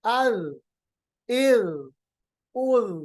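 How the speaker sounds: ال and ار ending in a soft tongue-tip dh. Shown as a demonstration. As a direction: let the final sound come out soft. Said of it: "آواز خود بخود نرم ہو جائے گی". (ساکن ذ کو نرم ادا کریں)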